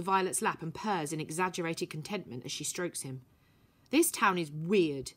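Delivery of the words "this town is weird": amazed. Acted. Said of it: "says Vi in an amazed voice".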